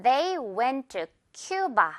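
very slow, "Cuba" drawn out as KYOO-ba; slow model sentence. Shown as a demonstration. Teacher gives an example to repeat, slow model with "Cuba" as KYOO-ba. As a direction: space the words out, ending on a stressed "Cuba". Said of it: "한 번 더 큰 소리로 따라해 주세요".

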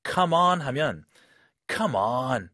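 exasperated "come on", falling hard at the end; drawn-out annoyed come on; frustrated come on. Shown as a demonstration. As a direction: sound fed up with "come on". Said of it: "frustration number two".

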